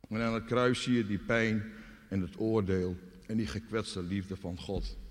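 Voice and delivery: ordinary delivery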